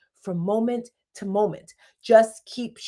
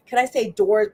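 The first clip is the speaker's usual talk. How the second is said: ordinary talk, nothing marked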